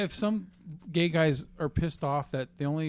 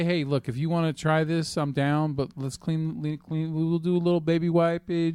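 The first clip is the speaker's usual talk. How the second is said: normal talking voice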